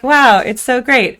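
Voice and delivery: high, drawn-out mock wow; play-acted amazement. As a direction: gush like a wowed tourist. Acts out future excited live reaction.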